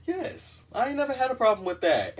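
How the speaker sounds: high, loud and fast brag; boastful. Real, not acted. Bragging to viewers, loud high brag. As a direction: brag it out big.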